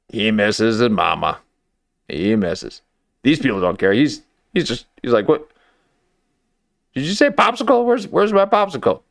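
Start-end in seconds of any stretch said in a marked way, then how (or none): 5.3-9.0 put-on high-pitched baby voice asking for a treat. Commenter voicing a stolen baby asking for popsicle, high baby voice. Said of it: "I'm not good with accents".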